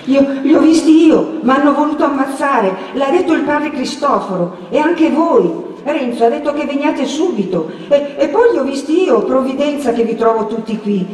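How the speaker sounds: put-on high, breathless frightened boy; excited, scared, pitched well up; panting. A narrator's reading. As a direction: pour out the danger in a winded rush. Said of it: "riprese Menico ansante".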